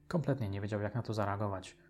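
ordinary delivery

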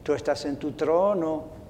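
a pastor praying over his congregation; prayer. Acted. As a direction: pray aloud for the church. Pastor leads a closing prayer.

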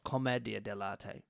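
commedia dell'arte with short E, com-MED-ia; alternative pronunciation. Shown as a demonstration. Cohost offering pronunciations, commedia dell'arte with MED. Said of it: "how to pronounce it properly".

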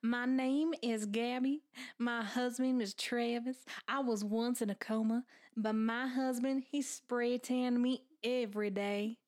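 put-on a light, playful Southern accent. Playing the comatose wife for her co-host: light Southern accent. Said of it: "This is my Southern accent".

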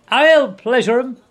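high, loud vengeful shout; furious yell. A narrator's reading. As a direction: throw the taunt back at full voice. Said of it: "he yelled".

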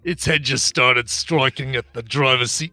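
lightly put-on Australian accent; barely there Australian accent, reading a news quote. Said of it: "read the quote in your Australian accent".

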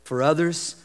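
a soft, intimate preacher's hush; hushed preaching. Acted. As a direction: draw them in with a near-whisper. Soft closing exhortation.

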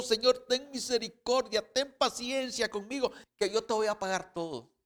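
pleading. Retold or imitated. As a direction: beg the master for mercy. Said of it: "Suplicó".

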